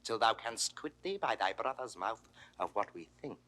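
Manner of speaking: low, hushed menace with long pauses; soft-spoken, dangerous authority; quiet threat. Acted. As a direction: pronounce the sentence softly and deliberately. Ruler threatens to seize lands.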